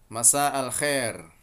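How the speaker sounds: "Masa al Khair" slow, "Khair" as a flat "xer"; Saudi pronunciation. Shown as a demonstration. Teacher modelling the Saudi evening greeting slowly. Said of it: "amiyah Saudi menjadi Masa al Khair".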